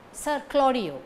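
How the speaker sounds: "Sir" unstressed, weight on "Claudio"; weak "Sir". Shown as a demonstration. Teacher showing Sir before a consonant, weak "Sir". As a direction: lean on "Claudio", not "Sir". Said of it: "weak form".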